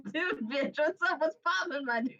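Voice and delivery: high, hammed-up dude voice; goofy high-pitched character greeting; Jingleheimer. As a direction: pitch it up like a hyped buddy. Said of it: "exactly what he says".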